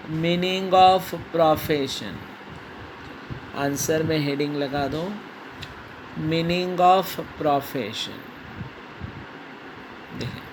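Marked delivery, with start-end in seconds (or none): 0.1-2.1 slow, clear dictation to class; dictating. Shown as a demonstration. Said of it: "teacher dictating heading". 6.2-8.2 slow, clear dictation to class; dictating. Shown as a demonstration. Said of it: "repeats dictation".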